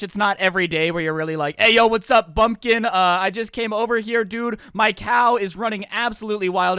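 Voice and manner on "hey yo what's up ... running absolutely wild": lightly voiced, louder opening hail; hailing neighbour. Imagined neighbour dropping by about a loose cow, hailing. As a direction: call out like a chummy neighbour.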